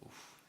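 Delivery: soft puff of breath; real "oof" at a tough question; stumped exhale. Real, not acted. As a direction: blow out a quiet, pondering breath.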